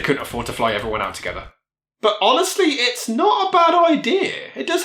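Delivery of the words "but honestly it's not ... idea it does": laughing. Real, not acted. Wry aside on the drama's premise.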